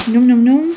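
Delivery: playful yum-yum eating sounds; playful munching noises. Pretend. Vlogger shows off the best salmon, playful munching noises. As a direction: mimic gobbling up something tasty.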